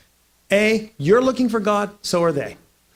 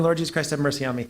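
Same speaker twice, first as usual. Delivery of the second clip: quick prayer; 3 semitones lower, faster than usual. Retold or imitated. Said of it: "I was praying".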